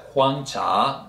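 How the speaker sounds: "huang cha" slowly, both syllables rising; careful Mandarin demo of "huang cha" in second tones; two rising tones. Shown as a demonstration. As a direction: lift the pitch on "huang", then on "cha". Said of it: "two rising tone".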